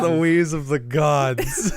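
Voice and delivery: mock epic. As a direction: announce it like a legend. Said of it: "mock grand epic phrase".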